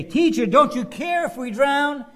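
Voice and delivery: loud, high, frantic plea; panicked cry. Acted. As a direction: shout it like men about to drown. Disciples crying out in storm.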